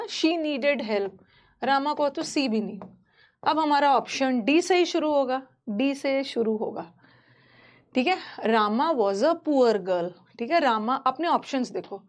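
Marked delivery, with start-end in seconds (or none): 0.0-1.1 every word stretched out very slowly; slow dictation. Shown as a demonstration. Teacher dictates answer slowly. 8.4-10.1 each word drawn out slowly; slow dictation. Shown as a demonstration. Teacher dictates answer slowly.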